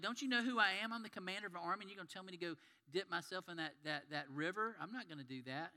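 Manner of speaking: mock outrage that cools as he goes on; indignant commander. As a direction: play the offended commander who won't dip in the river. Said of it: "And he was mad".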